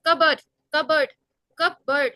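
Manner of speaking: "कबर्ड" with a hard first syllable; pronunciation demo. Shown as a demonstration. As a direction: lean on कब in "कबर्ड", then a short erd. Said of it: "कब पे थोड़ा hard है".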